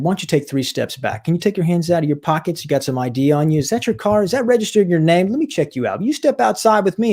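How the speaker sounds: rapid-fire officer questions, amping up; lightly voiced cop taking control, pitch climbing; imitated cop mode. Nervous young officer to the storyteller, imitated cop mode. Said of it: "he starts getting cop mode and he's amping himself up".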